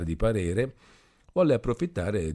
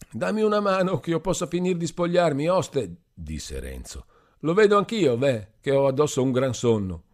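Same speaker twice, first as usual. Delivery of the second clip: put-on drunken Renzo; 8 semitones higher, 5 dB louder than usual. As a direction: drag it out like a happy drunk. Drunk Renzo asking help.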